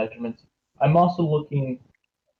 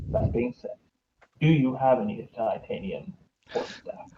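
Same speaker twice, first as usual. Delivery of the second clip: hushed sneaky whisper; 5 dB quieter than usual. Acted. Adventurer whispering a request to the smith, hushed.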